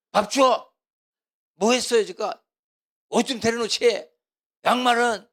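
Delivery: loud, high, barking demands; angry husband yelling. Retold or imitated. Husband yelling demands at his wife at breakfast, loud and angry. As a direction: shout orders like a grumpy husband.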